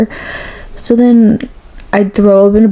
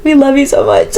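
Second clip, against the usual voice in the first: sweet reassuring; 4 semitones higher than usual. Retold or imitated. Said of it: "the twins are so sweet".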